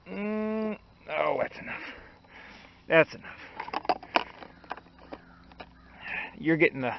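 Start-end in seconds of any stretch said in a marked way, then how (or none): 2.9-4.0 slow breathy whisper. Shown as a demonstration. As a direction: whisper it slowly to yourself. Repeats phrase while pouring.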